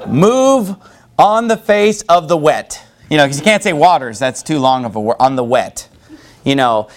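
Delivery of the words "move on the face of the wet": mock scripture =86. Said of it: "instead of".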